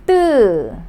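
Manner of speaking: 뜨 as a tight, unaspirated tt with eu; tense Korean 뜨. Shown as a demonstration. Teacher explaining the double D, tense 뜨. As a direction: clamp the tongue and release 뜨. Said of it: "you got to pronounce it as".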